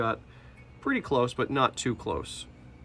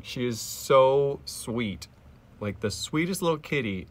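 cooing; 3 semitones higher, slower than usual. Real, not acted. Cooing over the cat.

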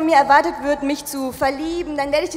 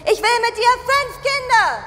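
mock shout; 8 semitones higher than usual. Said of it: "Und dann schrei ich".

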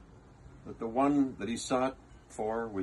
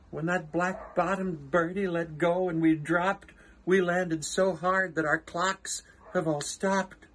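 higher, worried little mayor voice; the Mayor reporting trouble to Horton, higher; 5 semitones higher than usual. Acted. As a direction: tell the damage breathlessly from the speck. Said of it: "came the voice of the mayor".

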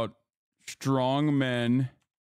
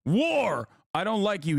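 put-on raised, higher outburst of a child in a rage; 6 semitones higher than usual. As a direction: shout it like a sulking child. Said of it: "he said in a rage".

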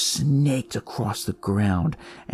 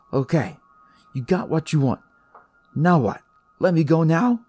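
nervous pleading; 9 semitones higher, 4 dB louder than usual. Acted. Pleading with the evil shoes.

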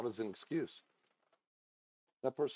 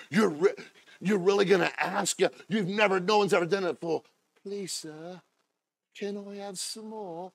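lightly voiced timid British boy asking for more; British orphan boy; 7 semitones higher, 7 dB louder than usual. Preacher voicing the orphan asking, lightly British. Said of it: "his little British accent".

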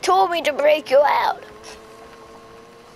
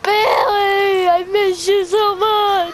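tearful; slower than usual. Acted. Tearful reunion.

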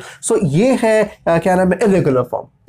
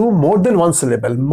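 slow heading; much slower than usual. Shown as a demonstration. Announcing the lesson heading.

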